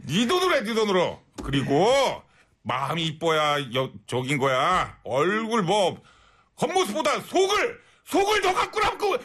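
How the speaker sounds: a lighter mother's lecture; mom's advice. Pretend. Mother advising her daughter, calmer then rising. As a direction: wrap up as the lecturing mom. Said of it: "엄마 입장에서".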